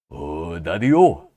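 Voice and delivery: slow, drawn-out hipster drawl; lazy beatnik greeting. Acted. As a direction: stretch it out like a cool cat. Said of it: "give you some Americanized skin".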